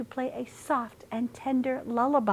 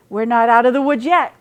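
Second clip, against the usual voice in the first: out of breath from running; panting; 3 semitones higher, 9 dB louder, faster than usual. A narrator's reading. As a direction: gasp the words between breaths. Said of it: "panted Dog".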